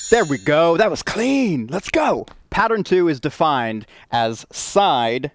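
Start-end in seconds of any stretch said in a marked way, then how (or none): 0.1-2.3 excited. Real, not acted. Celebrating the synced like.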